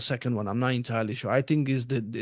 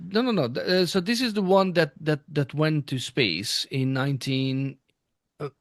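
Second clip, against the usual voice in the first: hoarse, losing voice mid-sentence. Real, not acted. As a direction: voice giving out, hoarse. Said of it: "sorry, I'm losing my voice".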